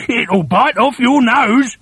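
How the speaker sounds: sly husband. A narrator's reading. Husband scares wife with the frog, slow teasing menace. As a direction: warn her slowly to scare her. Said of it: "Mister Twit said".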